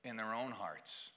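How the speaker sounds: low, soft sermon voice with long pauses; hushed pastoral appeal; solemn preaching. Real, not acted. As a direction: preach gently and gravely, letting each phrase settle.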